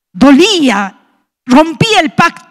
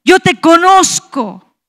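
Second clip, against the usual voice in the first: retold tearful plea; 5 semitones higher than usual. Wife crying to God over her unconverted husband, retold tearful plea. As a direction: plead with God, voice raised in pitch, as if crying. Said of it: "llorando le decía".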